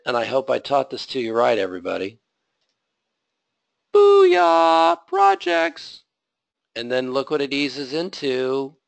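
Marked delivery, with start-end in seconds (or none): 3.9-6.0 high, loud victory whoop; triumphant shout. Real, not acted. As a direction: cheer like you just won. Code finally works, celebrates.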